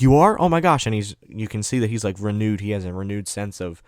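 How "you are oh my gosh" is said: high, louder surprised reaction; retold amazement, pitched way up; astonished relief. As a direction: act out sudden, delighted disbelief. Messenger learns he found them.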